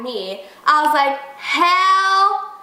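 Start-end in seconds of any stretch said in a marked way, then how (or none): 1.4-2.5 drawn-out, high sassy refusal; emphatic refusal. Retold or imitated. Storyteller refusing the woman yelling in her car, sassy. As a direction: stretch each word in mock outrage.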